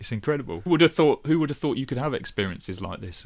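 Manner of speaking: lightly acted excitement; excited. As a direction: play up the wonder of someone newly thrilled. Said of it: "you're gonna get excited".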